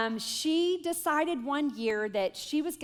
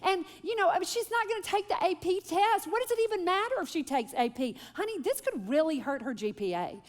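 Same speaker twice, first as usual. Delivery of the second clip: higher, faster, agitated pleading; mother anxiously pleading with husband to let daughter quit; worked-up mom; 7 semitones higher than usual. Retold or imitated. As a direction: rattle off her daughter's excuses in a rush. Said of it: "I start repeating everything she said".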